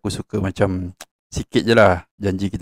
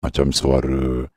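monster voice; 8 semitones lower than usual. Shown as a demonstration. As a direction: growl it like a monster. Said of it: "dia tukar jadi macam suara raksasa".

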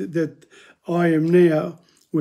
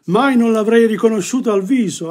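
emphatic reading; 5 semitones higher, 4 dB louder, faster than usual. Acted. Recites Dante's line with emphasis.

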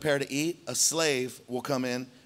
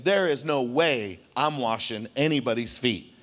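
Peter's stubborn thoughts; 2 semitones lower than usual. Retold or imitated. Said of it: "Peter's thinking".

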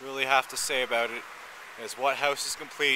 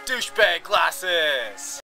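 excited; 6 dB louder, much slower than usual. Real, not acted. Announces putting on sunglasses.

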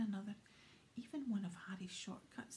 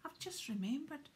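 panicked; 4 semitones higher than usual. Acted. Ron in the hospital bed panicking about the letter, alarmed. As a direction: sound suddenly alarmed and worried.

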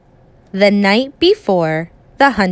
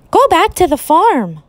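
telling ants off; 7 semitones higher than usual. A narrator's reading. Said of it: "I told the whole bunch".

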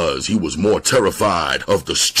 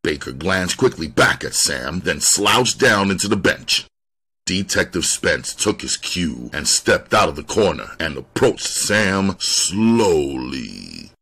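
plain reading voice

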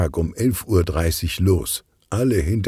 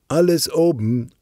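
high, raised call; rufen; 11 semitones higher, 4 dB louder than usual. A narrator's reading. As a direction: call out in a higher voice. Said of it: "ruft Bonnie". (hoch und hell gerufen)

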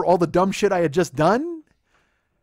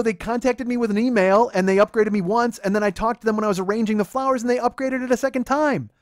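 raised, insistent account; defensive explaining; 4 semitones higher, 5 dB louder than usual. Retold or imitated. Boyfriend justifying the upgrade to his girlfriend, exasperated. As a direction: push the explanation out loudly.

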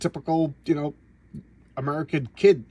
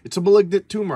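mock despair; 6 semitones higher, 7 dB louder than usual. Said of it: "he's like".

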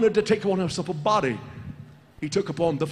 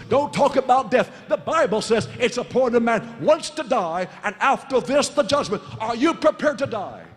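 insistent, raised warning; full-force preaching; 4 semitones higher than usual. Real, not acted. Preacher asking the congregation if they are prepared, full-force preaching. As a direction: press the warning home, pitch lifted.

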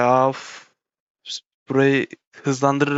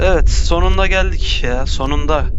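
relieved cheer; 2 semitones higher, 5 dB louder than usual. Real, not acted. Finally reaches goal in game.

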